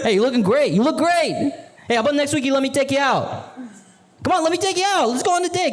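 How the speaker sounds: high, pushy flirting hustler; hometown guy voice. Pretend. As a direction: hit on the friend's sister, pushy and sleazy. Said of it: "I'm like".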